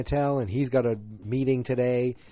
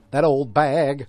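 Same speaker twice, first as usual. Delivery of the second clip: a louder, lightly mocking sitcom quote; quoted sitcom insult; 3 semitones higher, 6 dB louder, slower than usual. Host quoting Seinfeld about an old lady, lightly hammed-up. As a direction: punch it up like a borrowed TV line. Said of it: "that's from Seinfeld, that's not me".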